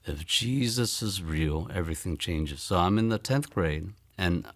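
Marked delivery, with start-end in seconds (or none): 0.0-2.6 slow, softer, lower, with weight; slow quiet realization. Retold or imitated. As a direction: let each word land in awe. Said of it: "say to myself".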